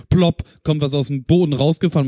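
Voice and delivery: usual speaking voice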